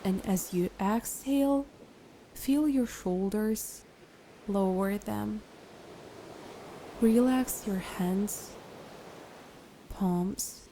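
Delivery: calm, unhurried guided meditation voice. Acted. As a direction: guide a listener into relaxation, leaving long pauses.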